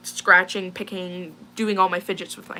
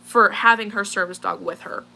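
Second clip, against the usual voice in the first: mildly heated, emphatic retort; retold lost temper; 3 dB louder than usual. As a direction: push back firmly, with a touch of temper. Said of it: "I lost my temper here".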